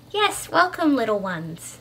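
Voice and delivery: lilting, motherly greeting; warm welcome. A narrator's reading. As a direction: welcome the little ones sweetly. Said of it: "smile warmly down upon the group".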